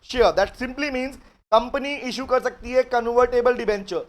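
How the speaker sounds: slow, careful reading of the provision; reading the law aloud. Shown as a demonstration. Teacher reads the provision slowly to students. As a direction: read each word slowly to the class. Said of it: "सुनो ध्यान से, कह रहे".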